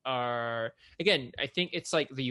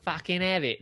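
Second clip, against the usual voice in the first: punchy, higher Cockney burst; Cockney accent; 4 semitones higher than usual. Shown as a demonstration. Demonstrating for the co-host, Cockney accent. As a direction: throw it out in broad Cockney. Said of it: "Cockney accent?".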